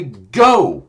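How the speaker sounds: a loud sudden shout. Acted. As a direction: yell it to Polly. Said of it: "shouting to Polly".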